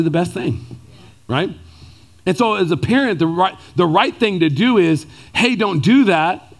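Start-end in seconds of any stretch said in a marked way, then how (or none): 5.3-6.5 slow, gentle no; loving correction. Shown as a demonstration. Father gently telling child not to do it, tender. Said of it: "in the most loving way possible".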